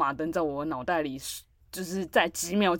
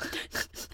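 sob demo; 10 dB quieter than usual. Retold or imitated. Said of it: "我就是这样".

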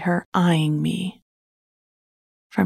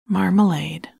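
coaxing a sulky cat; placating. Acted. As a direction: gently coax the cat. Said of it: "she said in a placating voice".

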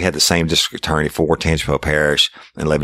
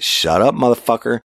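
angry yell; 9 semitones higher than usual. Retold or imitated. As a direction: bark him into silence. Cop yelling at denying suspect.

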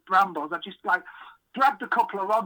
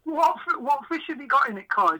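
surprised; 6 semitones higher than usual. Retold or imitated. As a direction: blurt it out, astonished. Shocked reaction on hearing of carp.

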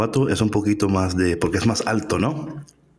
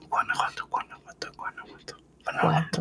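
whispered practice; 8 semitones higher, 9 dB quieter than usual. Retold or imitated. Host retelling how he practiced the city name, whispering. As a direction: whisper Guanajuato over and over under the breath. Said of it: "yo practicando".

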